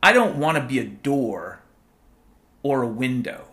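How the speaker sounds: declaimed like a stirring speech; mock recitation. Quoting Doctor Freckles to listeners as a mock speech. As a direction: recite it like a grand quote. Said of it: "Here's a quote from Doctor Freckles".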